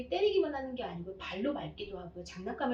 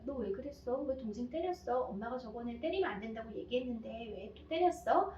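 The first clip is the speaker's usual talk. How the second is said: soft asking why. Shown as a demonstration. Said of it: "이렇게 물어보면".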